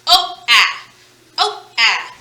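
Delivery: "Oh, ah" as two separate, punched vowel sounds; isolated vowel sounds. Shown as a demonstration. Teacher pulling vowels out of notepad, isolated sounds. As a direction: sound out "Oh" and "ah" alone, with a gap.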